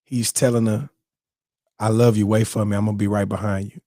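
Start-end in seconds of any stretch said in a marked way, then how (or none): 1.8-3.8 low, composed words of love; steady, tender reassurance; calm promise. Retold or imitated. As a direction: imitate a grandfather's unruffled farewell. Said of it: "And was calm".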